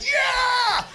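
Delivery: imitated cheer, high-pitched; exuberant shout. Comic imitating big guy dancing, exuberant shout. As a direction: whoop it like a dancer mid-kick. Kicking dancer's cheer acted out.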